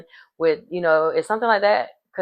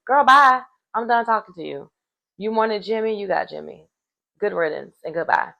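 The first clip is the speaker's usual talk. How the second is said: sassy brush-off; 3 semitones higher than usual. Pretend. Snapping back at a rejecting girl.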